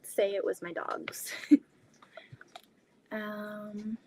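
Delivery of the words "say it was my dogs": whispered joke to the chat; hushed playful whisper. Real, not acted. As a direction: breathe it out conspiratorially.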